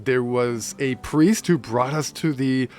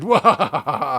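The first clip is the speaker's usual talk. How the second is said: roaring grunting brute; 4 dB louder than usual. Retold or imitated. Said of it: "turned into an evil anime villain and was like".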